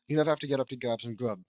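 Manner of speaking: "You never have to get up to grab some grub" fast; quick redo. Shown as a demonstration. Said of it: "oh, my bad".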